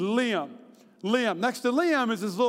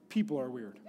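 dry punchline; 10 semitones lower, 7 dB quieter than usual. Real, not acted. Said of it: "here's my disclaimer".

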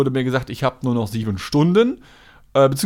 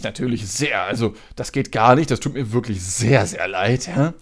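customer service voice. Retold or imitated. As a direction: overdo the polite apology. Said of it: "so übertrieben freundlich".

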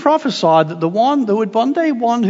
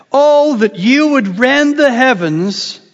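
solemn reading; slower than usual. Acted. Reading Isaiah's prayer aloud.

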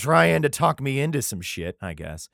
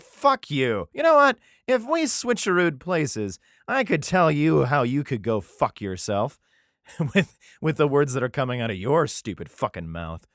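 mock angry rant; 3 semitones higher, 4 dB louder than usual. Job mock-cursing his friends.

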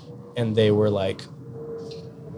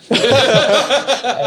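laughing through the words, slow and higher; 13 semitones higher, 5 dB louder than usual. Real, not acted. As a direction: break into a real laugh mid-story. Laughs retelling Messi fan.

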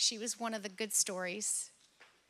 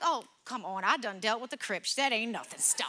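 louder, scoffing imitation of herself; dismissive mom retort; 5 dB louder than usual. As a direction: brush the sassy kid off, hammed-up. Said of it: "one of my kids gets a sassy mouth".

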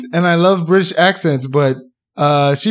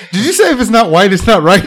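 higher, teasing through laughter; laughing; 4 semitones higher, 4 dB louder than usual. Real, not acted. Co-host pounces on the dentist's wording, laughing. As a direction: laugh while asking, voice raised.

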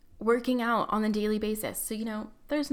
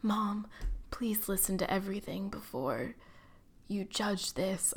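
mock melodrama; 5 dB quieter than usual. Daughter opening her letter to mom, mock melodramatic. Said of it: "it was, like, very dramatic".

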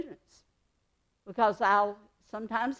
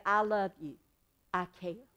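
sincere love you; 3 semitones lower, 4 dB quieter than usual. Shown as a demonstration. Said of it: "Or you can say".

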